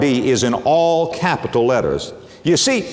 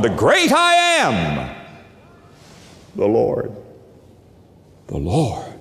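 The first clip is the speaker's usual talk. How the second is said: reverent hush; 6 semitones lower than usual. Shown as a demonstration. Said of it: "reverent build to hush".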